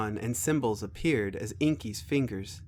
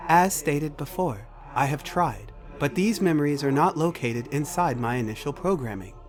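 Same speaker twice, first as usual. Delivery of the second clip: measured, precise machine voice; computer character, matter-of-fact; 3 semitones higher, 4 dB louder than usual. Acted. Computer tells Macy what it cannot access, formal machine voice. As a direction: state it formally, like an AI reporting limits.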